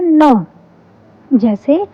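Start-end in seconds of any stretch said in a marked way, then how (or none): 0.0-0.4 "न" as an n sound with short vowel; letter sound demo. Shown as a demonstration. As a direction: sound out "न" for learners. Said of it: "N की sound होती है".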